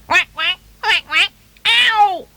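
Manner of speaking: high-pitched quacks ending in a loud yelp; squawked little duckling cry. Acted. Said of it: "cried the duckling".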